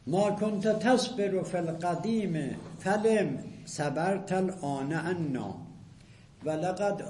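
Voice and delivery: slow, rhythmic reading of Arabic verse; poetry recitation. Shown as a demonstration. Teacher recites Abu Firas's poem to class, slow rhythmic chant. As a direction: chant the couplet, stretching the last words.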